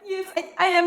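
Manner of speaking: high, halting little yes; sheepish admission. Retold or imitated. Recognized at the salon without makeup, sheepish admission. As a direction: admit it in a small high voice.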